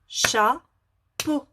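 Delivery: "Chapeau" split slowly into cha-peau; syllables spelled out. Shown as a demonstration. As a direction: tap out "Chapeau" one syllable at a time. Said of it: "Combien y a-t-il de syllabes".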